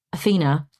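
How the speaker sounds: slow, measured retelling of calm counsel; calm advice. Retold or imitated. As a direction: ask it calmly, giving each word room. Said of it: "in a really calm way".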